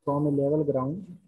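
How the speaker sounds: very slow, word by word, repeating phrases; slow dictation. Shown as a demonstration. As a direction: dictate slowly so students can write. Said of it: "question लिखिए पहले यहाँ पे".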